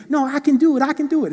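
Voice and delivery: put-on a small kid stubbornly protesting; insistent little boy. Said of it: "Dale, you really can't swim".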